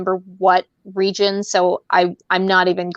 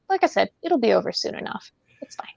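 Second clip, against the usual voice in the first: mock menacing whisper; 3 semitones higher, 6 dB quieter, faster than usual. Mock threat to friend.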